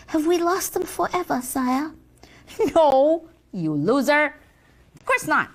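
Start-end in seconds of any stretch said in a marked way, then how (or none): 2.3-5.5 mocking laugh.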